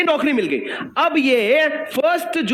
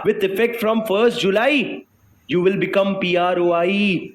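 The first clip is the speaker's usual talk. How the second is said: very slow, drawn-out official declaration; formal pronouncement; 2 semitones lower, much slower than usual. Acted. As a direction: pronounce it like a ruling, word by stretched word. Formal notice voiced to the person. (धीमी, औपचारिक घोषणा)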